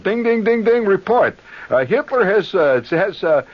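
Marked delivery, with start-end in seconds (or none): 0.0-1.4 teletype ding. Retold or imitated. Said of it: "So I say".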